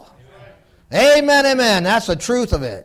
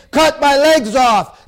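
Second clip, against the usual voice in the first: retold scream; 3 semitones higher, 4 dB louder, slower than usual. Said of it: "he's screaming".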